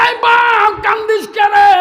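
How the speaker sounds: high, loud cry to her weeping son; mother startled, shouting to her crying son; alarmed mother calling. Acted.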